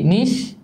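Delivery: "নিশ" alone, slow and rising; long "নিশ" lifted at the end; split into syllables. Shown as a demonstration. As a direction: sound out "নিশ" as one held syllable. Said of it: "ছোট ছোট অংশে ভাগ করি".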